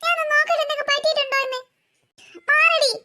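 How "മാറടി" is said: tearful snap. Acted. Crying sister pushes her away.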